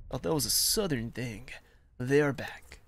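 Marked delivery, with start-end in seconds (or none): 2.0-2.8 lightly put-on German accent. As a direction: say it like a German soldier, half-serious. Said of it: "I don't know why I said that with a German accent".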